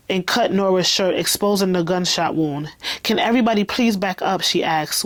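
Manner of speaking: even, measured story reading; understated audiobook narration. A narrator's reading. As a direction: read the scene aloud, voice settled. Reads the novel aloud.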